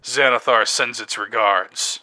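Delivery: slow, measured deep voice. Acted. Kenku mimicking another sound, slow deep voice. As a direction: draw it out low and weighty. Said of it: "a deep voice".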